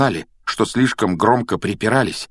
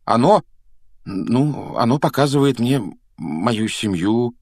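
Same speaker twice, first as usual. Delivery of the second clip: halting start, pitched higher; hesitant; 4 semitones higher, slower than usual. Acted. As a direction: begin unsurely, feeling for words. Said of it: "неуверенно начал Гарри".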